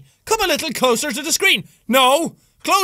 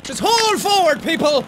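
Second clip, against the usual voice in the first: mock preacher. Mock preacher urging players.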